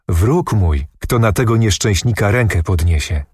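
plain reading voice

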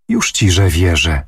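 plain reading voice

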